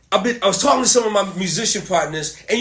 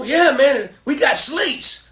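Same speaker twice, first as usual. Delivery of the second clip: higher, drawn-out retold brag; imitating musician partners; 6 semitones higher, slower than usual. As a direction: lightly voice a keen young musician. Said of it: "they're telling me".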